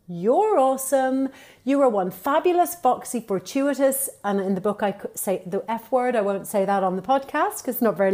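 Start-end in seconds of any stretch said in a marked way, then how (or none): 0.1-4.1 mirror pep talk. Shown as a demonstration. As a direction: cheer yourself on in the mirror. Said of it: "look in yourself in the mirror and go".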